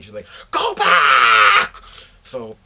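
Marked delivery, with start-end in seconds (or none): 0.5-1.8 loud shouted command; yelled order. Retold or imitated. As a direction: bark it at him like a friend scolding. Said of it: "And she yelled at me".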